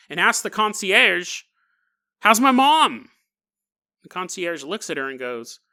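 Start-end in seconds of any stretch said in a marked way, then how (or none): 2.2-3.1 higher, louder urgent plea; anxious. Acted. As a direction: burst in, desperate for news. Frantic daughter asks concierge.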